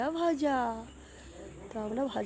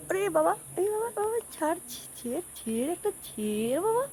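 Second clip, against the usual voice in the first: calling out to father; 8 semitones higher than usual. Real, not acted. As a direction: beg dad to let go, calling up high. Begging father to let go.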